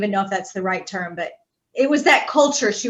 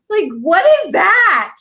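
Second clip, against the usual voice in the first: mock indignant; 7 semitones higher, 5 dB louder, slower than usual. Real, not acted. Indignant at unreturned love.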